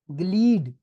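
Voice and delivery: ग्लीड said with a long ee, gleed, not glide; long ee sound. Shown as a demonstration. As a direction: stretch the ee in ग्लीड. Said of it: "ग्लाइड नहीं है". (ग्लीड में लंबी ई की आवाज)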